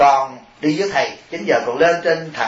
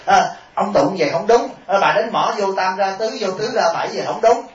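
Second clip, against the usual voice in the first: higher-pitched nitpicking complaint; mock fault-finding; 4 semitones higher than usual. Teacher mimicking someone nitpicking others' chanting, fault-finding. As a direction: lightly imitate a picky critic correcting others.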